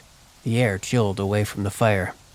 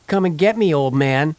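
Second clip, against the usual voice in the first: put-on taunting boy; 6 semitones higher, 5 dB louder than usual. Boy taunts angry father.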